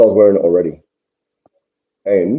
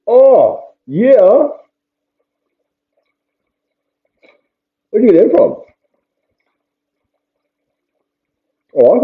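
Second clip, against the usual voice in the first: high, louder filtered voice; voice changer; 7 semitones higher, 6 dB louder than usual. Shown as a demonstration. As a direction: talk through a high pitch effect. Testing voice-changing headphones.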